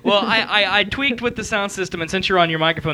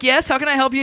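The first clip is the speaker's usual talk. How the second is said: higher-pitched receptionist imitation; retold hotel woman; 6 semitones higher, faster than usual. Host retells the woman at the hotel, higher voice. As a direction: lightly mimic a helpful hotel clerk. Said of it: "She's like".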